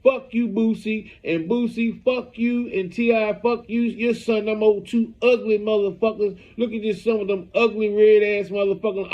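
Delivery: half-hearted impression of an online rant; retold cursing rant. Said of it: "He's saying".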